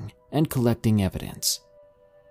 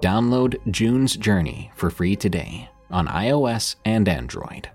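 ad read. Acted. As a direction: sell it like a podcast ad. Narrator reads sponsor ad.

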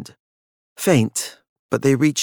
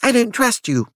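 wild; 12 semitones higher than usual. A narrator's reading. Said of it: "his voice still wild".

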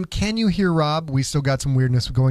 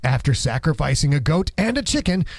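movie trailer voice. Acted. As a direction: narrate it like an epic movie trailer. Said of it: "movie trailer guy voice".

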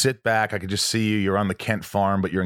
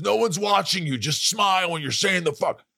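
higher, dismissive reassurance; mock coach; 9 semitones higher than usual. Coach brushing off the singer's fear, mock casual. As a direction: wave off his worry. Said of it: "He goes".

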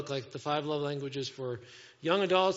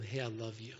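tender; 7 semitones lower, 8 dB quieter than usual. Acted. Imagines God's audible voice in embrace.

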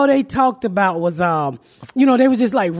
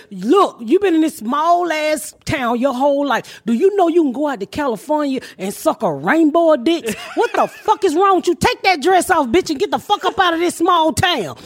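lecturing rant; 4 semitones higher than usual. Retold or imitated. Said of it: "I said".

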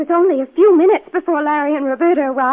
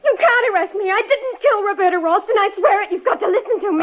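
pleading; 4 semitones higher than usual. Acted. Suspect pleading her innocence.

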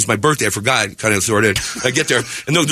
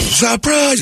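high-pitched imitation of guests; mock party cry; party surprise shout; 9 semitones higher than usual. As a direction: call out the surprise. Party guests yell surprise, retold.

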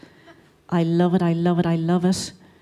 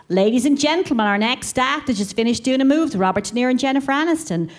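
compere intro; 4 semitones higher, faster than usual. Retold or imitated. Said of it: "Just get these huge long intros".

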